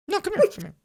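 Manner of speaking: high luring call; creepy chest. Retold or imitated. Voicing a trap chest luring the player, high and creepy. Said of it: "others will be like".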